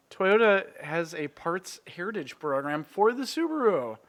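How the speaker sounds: talking around a hot mouthful; mouth full of hot food. Real, not acted. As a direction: mouth full, words a bit mushy. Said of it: "my mouth is on fire right now".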